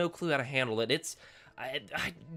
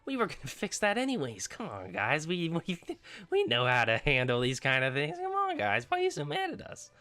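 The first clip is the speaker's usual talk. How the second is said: mock Fox Next. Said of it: "So they were like".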